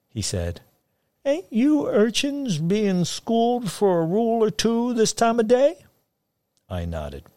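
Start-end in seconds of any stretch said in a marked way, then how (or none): 1.2-5.8 put-on high, lilting old backwoods man; sing-song voice. A narrator's reading. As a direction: sing it up high like a folksy hillman. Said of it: "in his sing-song voice".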